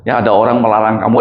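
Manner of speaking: ordinary delivery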